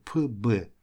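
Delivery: "П, Б" as two separate bare sounds; two separate consonants. Shown as a demonstration. Teacher showing two consonants in a row, "П, Б" sounded separately. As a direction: sound out "П", then "Б", each on its own. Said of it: "не можем две согласных подряд сказать".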